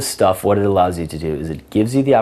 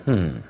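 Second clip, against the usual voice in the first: disbelieving hmm; 4 dB quieter than usual. Shown as a demonstration. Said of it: "look of big disbelief".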